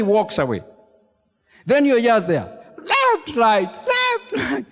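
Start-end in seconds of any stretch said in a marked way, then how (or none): 2.8-4.7 high shouted left-right count; march in place and bark the count; drill shout. Retold or imitated. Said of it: "you are supposed to be shouting".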